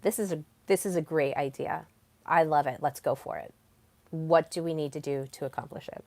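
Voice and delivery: steady, decided statements; speaking with power. Shown as a demonstration. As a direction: own the idea and move to action. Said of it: "instead of speaking with power".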